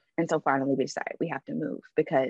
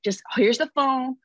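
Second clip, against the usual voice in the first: coaxing; 3 semitones higher than usual. Retold or imitated. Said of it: "So I'm like".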